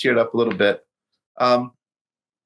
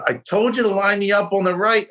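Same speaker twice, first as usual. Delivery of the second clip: high, pitched-up complaint at the caddie; exasperated scolding; 8 semitones higher than usual. Retold or imitated. To Alex after the putt heads left, high exasperated complaint. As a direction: snap it like he ignored you.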